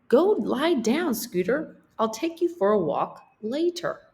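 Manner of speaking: lightly voiced illustrator shooing her dog; illustrator character. Illustrator telling her dog Scooter to lie down, lightly voiced.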